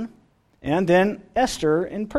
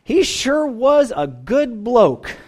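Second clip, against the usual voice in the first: put-on slow, higher-pitched Australian accent; strong Australian accent; 5 semitones higher, slower than usual. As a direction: imitate an older Australian woman, drawn out. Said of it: "her really strong Australian accent".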